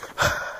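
long visible breath out; breath puff. Real, not acted. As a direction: blow out a cold breath. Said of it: "you can see my breath".

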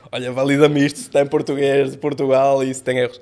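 asking the chatbot. Retold or imitated. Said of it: "o chat G P T é o meu melhor amigo em".

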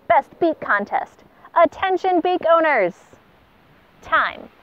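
pompous official notice read aloud; proclamation voice. Acted. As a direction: announce it like a herald to the whole bay. Pelican reads out contest notice.

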